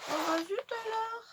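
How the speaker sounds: high, dismayed little cry; surprised. Real, not acted. Finds a bottle missing.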